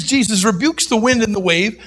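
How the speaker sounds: usual speaking voice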